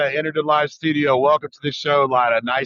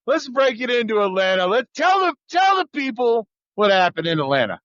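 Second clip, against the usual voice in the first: higher, shouted push to start the story; excited urging; 4 semitones higher than usual. Real, not acted. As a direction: hype it up for the audience. Host hyping guest's story.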